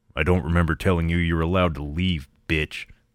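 very deep voice. Reading a story aloud, voicing a huge man's threat: very deep tone. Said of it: "he said in a very deep tone".

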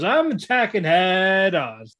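high, slow, gruff put-on battle cry. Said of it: "while Inosuke goes".

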